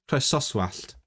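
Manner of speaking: "croesoswallt" with a heavy stress on the penultimate syllable. Shown as a demonstration. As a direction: lean slowly on the next-to-last syllable of "croesoswallt". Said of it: "I should really stress it".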